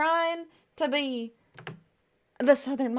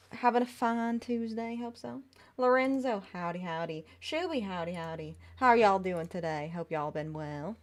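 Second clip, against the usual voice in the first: lightly voiced Southern mom greeting the chat; a gentle hint of Southern twang on each howdy; Southern mommy accent; 3 semitones lower than usual. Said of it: "not very Southern Mommy".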